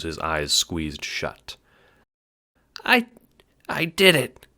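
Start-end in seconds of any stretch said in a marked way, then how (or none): 2.8-4.5 whispered, high, strained hiss; dying hiss. Acted. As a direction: gasp it out as he dies. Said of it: "he hisses, coughing".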